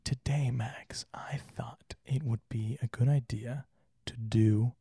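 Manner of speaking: slow breathy whisper; ASMR whisper. Shown as a demonstration. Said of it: "I may also switch in and out of both".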